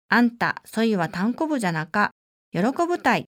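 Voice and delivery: light Nagasaki dialect, kindly cheering her up; a hint of a Nagasaki local, reassuring. Nagasaki dialect from a seminar participant to the injured speaker, lightly voiced. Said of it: "その方は長崎弁でこうおっしゃいました".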